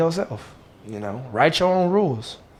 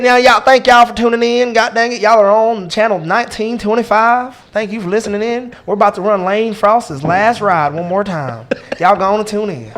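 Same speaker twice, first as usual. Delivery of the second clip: higher, louder, slower hammed-up country DJ; country radio intro voice; 7 semitones higher, 3 dB louder than usual. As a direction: ham up a country radio host welcoming listeners. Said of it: "I can do a country".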